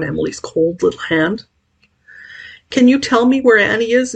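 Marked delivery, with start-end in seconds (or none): 2.7-4.1 wistful entreaty. Acted. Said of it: "entreated mad Mister Morrison wistfully".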